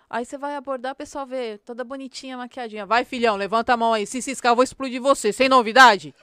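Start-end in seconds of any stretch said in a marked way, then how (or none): 2.9-6.1 louder, barked police command; tough cop voice. Retold or imitated. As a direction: talk like a cop ordering a suspect around. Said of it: "Credo, você não fala assim". (voz de policial durona, alta e firme)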